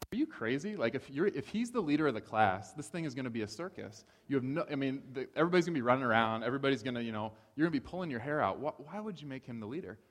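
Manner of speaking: high, loud mock-alarmed objection; incredulous protest. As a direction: protest like the whole plan is madness. Retold alarmed objection to wife.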